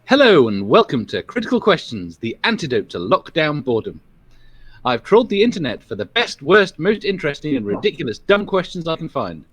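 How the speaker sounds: lightly posh presenter voice; a hint of a posh host. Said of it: "your funny posh voice".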